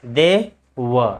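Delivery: "were" set apart as va without r; pause, then "were" ending on a schwa; silent r. Shown as a demonstration. Teacher modelling it for students, "were" with silent r. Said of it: "ऐसे".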